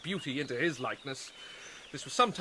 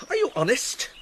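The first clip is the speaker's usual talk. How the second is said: sharp challenge; 8 semitones higher, 4 dB louder than usual. Acted. Hamlet confronts Ophelia.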